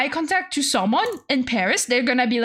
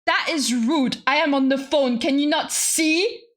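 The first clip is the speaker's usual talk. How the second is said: mildly indignant retold scolding; touch of overwhelmed protest; overwhelmed rebuke. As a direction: spell out the complaint word by word. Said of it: "I was just so overwhelmed that I just said".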